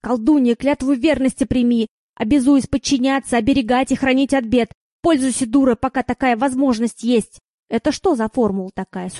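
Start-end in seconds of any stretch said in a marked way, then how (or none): 0.0-4.7 ceremonial oath, declaimed; solemn voice. Acted. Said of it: "заговорил торжественным голосом". 5.0-7.4 hysterical notes. Acted. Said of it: "истеричными нотками".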